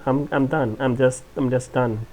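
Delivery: ordinary talk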